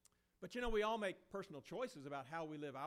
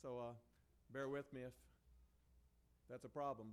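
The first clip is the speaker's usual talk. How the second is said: hoarse, losing his voice; 4 semitones lower than usual. Real, not acted. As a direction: push through a worn-out hoarse voice. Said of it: "Afraid I might have lost my voice".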